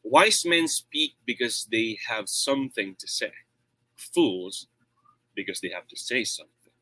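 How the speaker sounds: deliberate, measured quote with shifting emphasis; orator's delivery with weighted pauses; varying tone and volume. Shown as a demonstration. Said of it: "natural volume, and varying volume".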